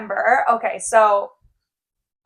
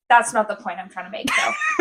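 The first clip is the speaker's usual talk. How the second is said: laughing. Real, not acted. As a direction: push it out through laughter. Laughing at own tangent.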